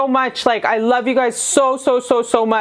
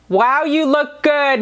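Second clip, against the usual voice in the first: slow, lingering praise, more lifted; bigger admiring compliment; 4 semitones higher, slower than usual. Real, not acted. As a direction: savour the compliment, a bit more gushing. Repeated, bigger take.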